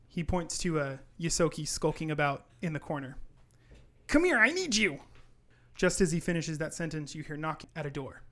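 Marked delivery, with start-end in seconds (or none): 4.1-5.0 high, loud elf calling out; urgent summons. Acted. Elf summoning the Yosoki from the corner, urgent. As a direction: call someone over urgently, pitched high.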